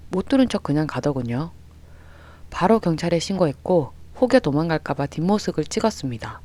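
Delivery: ordinary delivery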